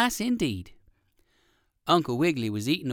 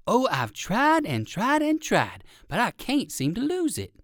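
put-on weary old rabbit; 8 semitones higher than usual. Uncle Wiggily complains.

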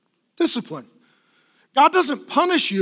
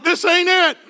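put-on disappointed kid; 7 semitones higher, 3 dB louder than usual. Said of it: "they're like".

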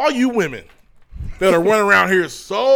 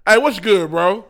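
casual slang greeting; 2 semitones higher, 5 dB louder, slower than usual. Retold or imitated. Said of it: "I'm not gonna be in there on the".

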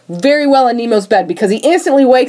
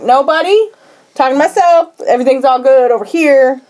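higher-pitched, covering up; feigned innocence; 3 semitones higher than usual. Retold or imitated. Nemo covers up his talk with Flip, feigned innocence. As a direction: play it innocent, nothing going on.

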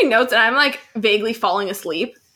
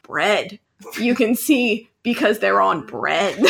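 deadpan explaining; 3 semitones lower, slower than usual. Retold or imitated. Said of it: "And I'm like".

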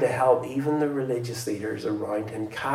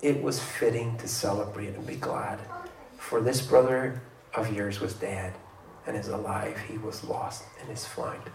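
tender father; 3 dB quieter than usual. Acted. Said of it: "the father's answer is beautifully tender".

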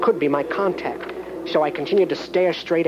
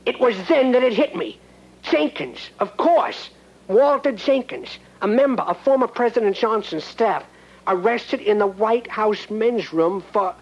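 higher, rising alarm, slowing on the name; dawning horror; 6 semitones higher than usual. Acted. Cop realising who Jenkins is, alarmed and high. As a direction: let the realisation climb in pitch.

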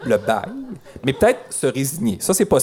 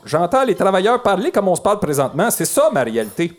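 lightly voiced concerned citizen; 3 semitones higher than usual. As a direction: read it as a hint of an aggrieved local. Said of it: "C'est la voix citoyenne".

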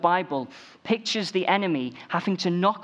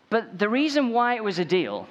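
accidentally Cowell-like; 7 semitones higher than usual. Real, not acted. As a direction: restart the point with a higher, punchier voice. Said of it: "that's not my impression of Simon Cowell".

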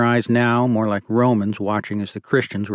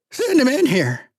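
shouting demand. A narrator's reading. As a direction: shriek the demand across the yard. Hostage-taker demands from house.

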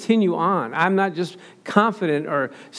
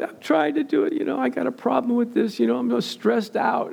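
stressed woman, lightly voiced; 7 semitones higher than usual. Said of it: "woman retold in bible study".

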